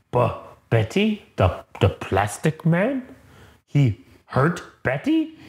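slow, halting brute, rising into questions; dazed Hulk voice. Retold or imitated. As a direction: piece it together like a simple-minded giant. Dazed Hulk piecing memory together.

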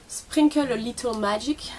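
slow, put-on English accent; playful English accent. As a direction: draw out the name in mock-English pronunciation. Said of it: "J'adore, mon accent anglais". (accent anglais forcé, lent et amusé)

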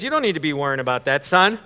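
mildly irritated dad, quick and low; slightly ticked off. Acted. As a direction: brush the boy off briskly. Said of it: "got a little ticked off at that".

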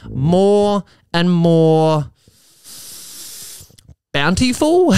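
slow, drawn-out pirate talk. Pretend. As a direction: ham it up like a pirate captain. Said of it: "Why am I speaking like a, pa-, a pirate?".

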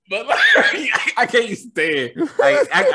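words squeezed out between high bursts of laughter; laughing. Real, not acted. Telling his co-host he can't finish the sentence, laughing. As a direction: keep trying to talk but the laugh wins. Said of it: "I couldn't even say that full sentence without laughing".

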